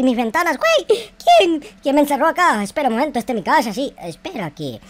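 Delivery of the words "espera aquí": mother's voice. Acted.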